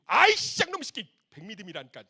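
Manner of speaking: high, loud furious shout; mom's angry scolding. Retold or imitated. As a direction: yell at the kid like an exasperated mother. Mom scolding child retold. (화난 엄마의 고함)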